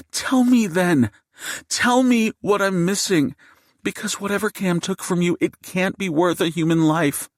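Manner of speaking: high, urgent indignant challenge; heated demand. A narrator's reading. Wife challenges gunman to explain himself, heated and high.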